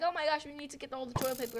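imitating people panic-buying; mock panic. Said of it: "freaking out".

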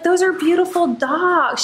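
a hint of a gushing stranger; imitating a nice lady. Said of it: "She was like".

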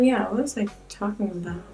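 ordinary talk, nothing marked

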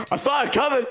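laughing through the words. Real, not acted. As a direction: giggle while admitting defeat. Laughing at own failure.

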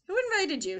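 high, loud, indignant question; cross. A narrator's reading. Hank confronts the lizard, cross. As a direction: challenge an unwanted guest.

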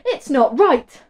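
high, slow, whiny complaint; moaning Martha. A narrator's reading. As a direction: whine it like a fed-up sister. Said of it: "moaned Martha".

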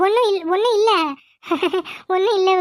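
a shaky cover-up laugh; nervous laugh. Acted. Nervous cover-up after fright. (பதட்டமான சிரிப்பு)

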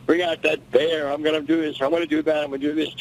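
mild mock yell at a rival; imitating a boastful yell. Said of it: "the way he carried on and screamed".

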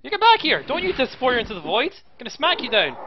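high, fired-up taunt; taunting shout. Real, not acted. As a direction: yell after the fleeing enemy. Chasing an enemy in game.

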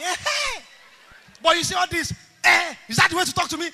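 high, loud shout of protest; indignant outburst. Acted. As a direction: blow up at them, scandalised. Acted angry outburst in a quarrel.

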